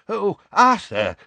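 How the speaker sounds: high, loud desperate cry of relief. A narrator's reading. Timid old clerk greets his boss, high and desperate. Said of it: "he said desperately".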